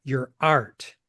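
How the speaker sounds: unhurried author's reading of a scene, voicing Mary and Frankie lightly; reading from her novel. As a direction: read the passage aloud, taking time over Mary's lines. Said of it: "I'd like to read a passage from the novel".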